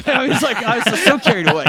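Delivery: laughing through the words, pitch jumping high. Real, not acted. Host laughing at his own restaurant story, high laughing. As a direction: crack up while telling it.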